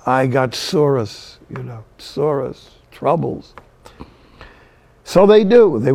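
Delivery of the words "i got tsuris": lightly voiced Jewish lady, drawn out; old Jewish lady. Old Jewish lady answering how she is, drawn-out complaint. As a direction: stretch out the complaint with a Jewish accent. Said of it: "I'd ask an old Jewish lady".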